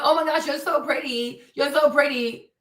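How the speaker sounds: mock gushing over her looks; sarcastic fan gush. Mocking fans who gush that she's so pretty. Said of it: "it is not".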